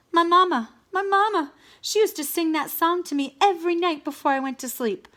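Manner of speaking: a villain melting into nostalgia; wistful. Acted. Wolf remembering his mama, sentimental wail.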